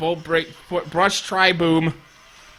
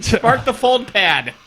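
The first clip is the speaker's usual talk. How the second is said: calling out; 4 semitones higher, slower than usual. Real, not acted. Player repeating a command to teammates, slow insistent call. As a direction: call each word out to the crew.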